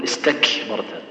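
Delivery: "استكبرت" said slowly with the final ت lightly released; correct ta. Shown as a demonstration. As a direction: close "استكبرت" with a soft breathy t. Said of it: "تقول".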